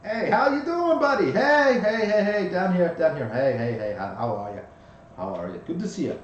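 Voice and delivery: high, loud tiny bug voice; pixie. Acted. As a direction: shout up from the ground like a tiny ladybug. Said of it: "you hear a little voice".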